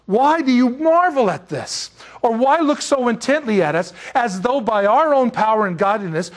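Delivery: Peter's speech read out with rising force; preacher quoting Peter, lifted and earnest; scripture reading. Acted.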